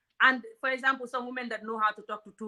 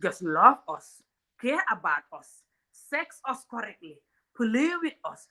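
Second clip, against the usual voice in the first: pleading shout; slower than usual. Real, not acted. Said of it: "I'm gonna scream now".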